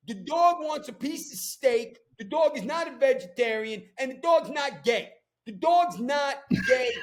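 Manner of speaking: angry rant at a dog owner who makes her dog vegan; pissed off. Real, not acted. At a dog owner projecting onto her dog, heated rant. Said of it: "I get pissed off now".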